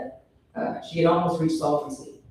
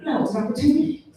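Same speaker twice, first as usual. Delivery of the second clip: mock patient girlfriend; 9 semitones higher, faster than usual. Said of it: "And she was like".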